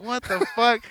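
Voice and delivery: high, mock-indignant complaint; exasperated. Scolding a friend who kept them waiting outside, high and indignant. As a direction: raise your voice in disbelief. Angry retelling at Jason.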